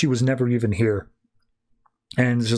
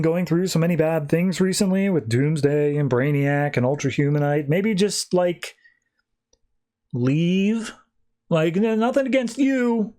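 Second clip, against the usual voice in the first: higher, folksy barbershop guy, lightly voiced; small-town gossip; 4 semitones higher than usual. Barber-shop gossip urging Clark to leave, higher, folksy. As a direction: nudge him out of town, kindly but firmly.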